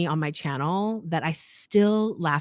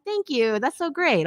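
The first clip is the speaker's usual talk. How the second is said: lightly acted, higher-pitched thanks; grateful reply; 7 semitones higher than usual. Acts own grateful reply to commenters.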